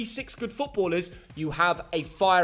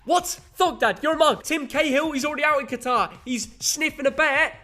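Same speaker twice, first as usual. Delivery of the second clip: mock Australian accent; 8 semitones higher, 4 dB louder than usual. Son hams up an Aussie fan for his dad, loud mock Australian accent. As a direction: shout it like a cartoon Aussie fan. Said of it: "why are you doing a Cockney accent".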